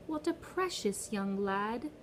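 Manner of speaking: slow, smooth, lightly British-tinged voice; a hint of a foreign Brit, sweet and cold; strange British accent. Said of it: "He had a strange accent".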